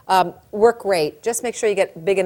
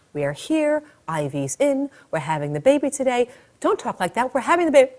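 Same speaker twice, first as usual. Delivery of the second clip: voice of reason; 4 semitones higher than usual. Acted. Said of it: "Voice of reason".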